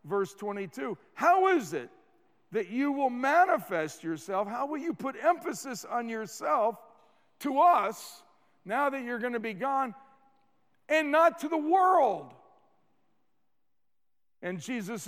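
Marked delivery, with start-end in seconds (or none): 1.1-12.3 a disciple's rising, pressing question; puzzled disciple asking. Acted. Preacher voicing a disciple's question to Jesus, pressing. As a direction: build to a near-shout on "and not to the world". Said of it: "one of the disciples said".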